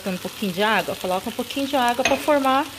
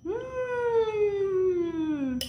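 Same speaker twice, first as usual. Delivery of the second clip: savoring hum; 9 semitones higher, 6 dB quieter than usual. Real, not acted. First bite of food.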